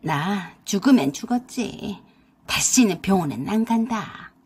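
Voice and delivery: a mild, understated booming mother-in-law; mother-in-law refusing the hospital, mildly booming. Acted. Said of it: "쩌렁쩌렁 목소리로 그러셨어요".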